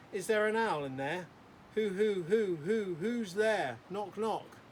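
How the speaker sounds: loud, high hammy punchline delivery; eager joke teller. Acted. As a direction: belt out a bad joke proudly. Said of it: "Oh, it gets worse".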